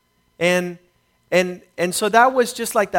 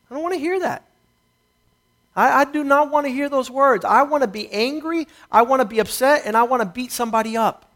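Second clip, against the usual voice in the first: raised angry protest; 4 semitones higher than usual. Retold or imitated. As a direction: push back hard, voice up. Angry refusal after car theft.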